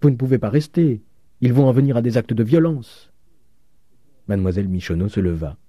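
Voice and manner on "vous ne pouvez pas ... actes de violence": high, loud lament; urgent, raised-voice pleading; distressed exclaiming. A narrator's reading. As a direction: cry out as a ruined landlady. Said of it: "s'écria madame Vauquer".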